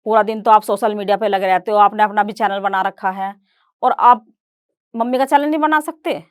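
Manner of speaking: daughter scolding her brother, rising at the end; retold scolding. Daughter scolds brother over mum's channel, mock scolding. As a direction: mildly scold a lazy brother. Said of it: "इसने अपने भाई को डांटा".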